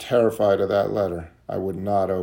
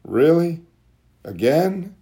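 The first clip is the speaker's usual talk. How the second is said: exasperated retort; 2 semitones higher than usual. Retold or imitated. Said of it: "And it's like".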